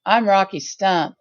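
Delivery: laid-back hippie drawl with man; cool hippie. Retold or imitated. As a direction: chill hippie voice. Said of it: "And he'd be like".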